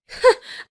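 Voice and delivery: short mocking laugh; one brief dismissive laugh; scornful laugh. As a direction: laugh off the accusation. Scornful laugh in acted quarrel.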